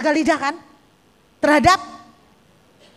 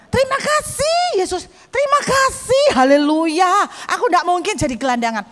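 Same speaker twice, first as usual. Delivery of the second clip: pained, pleading thanks. Retold or imitated. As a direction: squeeze out thanks through a headache. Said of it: "sambil merem-merem begini, bukan karena penjiwaan, karena sakit kepala".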